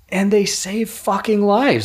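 slow and pointed, hitting fucking lives hard; emphatic stress. Real, not acted. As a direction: lean into every word to drive it home. Praising gym owners, emphatic point.

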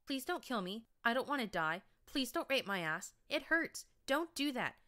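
high, loud sneering imitation of a whimpering captive; mock his whining to taunt him; mocking whine. A narrator's reading. Stallion taunting his captive, mock high whining. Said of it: "Do all stable ponies whine this much?".

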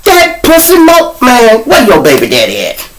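imitating her. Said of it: "She be like".

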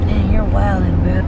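loud disbelief at a wild driver; loud reaction. Real, not acted. Reacting to reckless driving.

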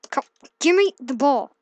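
calling out loudly at the game; loud demand at the screen; shouting. Real, not acted.

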